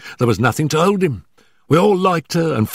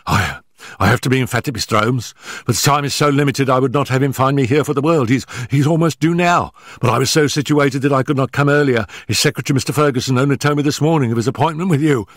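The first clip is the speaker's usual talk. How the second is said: high, hurried, stammering nervous man; gasping, out of breath; 7 semitones higher than usual. Acted. Nervous manager warning Holmes before his employer arrives, gasping and hurried. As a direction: blurt it out in short frightened bursts. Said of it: "our visitor gasped, shooting out short sentences like a man who was out of breath".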